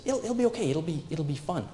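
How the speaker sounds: a breezy, reassuring whisper-free inner voice saying it's fine; voice in your head. Retold or imitated. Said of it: "the voice in your head says".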